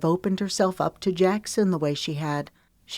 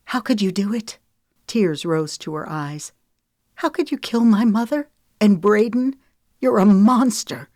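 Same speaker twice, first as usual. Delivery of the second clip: rising fury, louder and higher; angry accusation; 4 semitones higher, 5 dB louder than usual. A narrator's reading. Lemon confronting Wesley on the phone, loud and furious. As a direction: hurl it at him, building to a loud accusation. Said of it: "she hissed".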